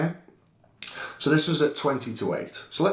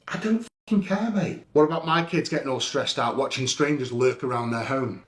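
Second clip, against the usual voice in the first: angry retold outburst. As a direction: fire it back at the driver, heated. Retold shouting at a driver.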